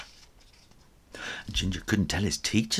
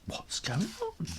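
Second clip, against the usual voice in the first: tense whisper; 7 dB quieter than usual. A narrator's reading. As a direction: draw them into the dark. Night, a noise upstairs.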